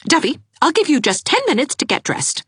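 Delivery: put-on firm young woman; commanding Anne. A narrator's reading. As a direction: order her out of bed.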